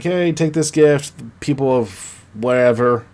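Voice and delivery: light mock proclamation; imitated cheering. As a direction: call out to a crowd, half-hearted. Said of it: "he's cheering".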